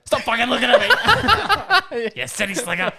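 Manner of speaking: high, loud comic outburst breaking into laughter; mock yell. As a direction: yell it as a hammed-up hostile local. Joke version of the stranger's greeting.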